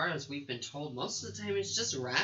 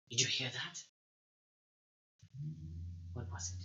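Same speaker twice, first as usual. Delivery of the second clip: hushed guard voice; 3 semitones lower, 8 dB quieter than usual. Acted. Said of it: "you can hear something".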